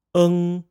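"eng" held high and level; first tone eng. Shown as a demonstration. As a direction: sustain "eng" on a high flat pitch. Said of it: "with the first tone".

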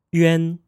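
"yuan" as one syllable, glide into a nasal en; teacher models "yuan" clearly; Mandarin final yuan. Shown as a demonstration. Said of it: "we will get the sound of".

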